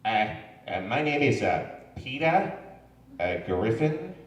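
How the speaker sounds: a hint of Peter Griffin, hesitant; a lightly voiced dopey cartoon dad; Peter Griffin impression. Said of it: "Popeye voice".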